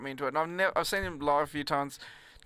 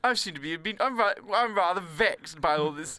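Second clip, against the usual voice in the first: lightly voiced vexed gentleman; mock a mildly put-out posh Englishman; posh Doctor Who; 3 semitones higher, 3 dB louder than usual. Posh Doctor vexed by lasers, lightly put-on gentleman's voice. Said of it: "I would like to have a posh Doctor Who".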